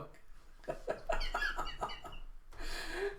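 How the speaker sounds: very high, soft giggling; girlish giggle. Acted. Becky going over her cardboard creation, high giggle. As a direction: titter in a tiny high voice. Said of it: "you have Becky going".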